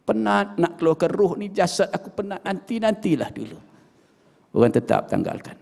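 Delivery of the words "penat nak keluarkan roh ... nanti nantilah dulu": softer, weary dead man's plea; the dead pleading with the washers, softer and tired; moaning plea. Acted. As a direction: beg them to wait, exhausted. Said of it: "merintih kepada orang yang menanggal".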